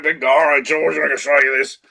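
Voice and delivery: light hint of a British or Australian accent; imitating an effects man pitching George in a British or Australian accent. Effects man showing George his rig, light British or Australian accent. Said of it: "Kit was either British or Australian".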